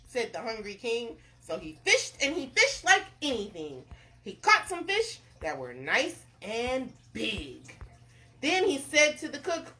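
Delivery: animated read-aloud narrator; story narration. A narrator's reading. Narrator tells of the king fishing, story narration. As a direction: tell it with bouncy emphasis.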